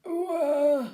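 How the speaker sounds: high, loud squeaky mouse ooh; little mice watching, squeaking ooh; mice going ooh. Acted. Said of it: "The little mice are going".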